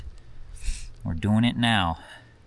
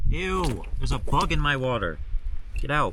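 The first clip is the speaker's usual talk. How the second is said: grossed out; 5 semitones higher than usual. Real, not acted. Finds a bug in his water.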